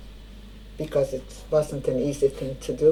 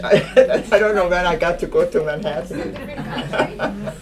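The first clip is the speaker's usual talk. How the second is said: a slow, amused reply that starts on a laugh; 3 semitones higher, slower than usual. Real, not acted. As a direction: chuckle off the idea. Amused by the interviewer's idea.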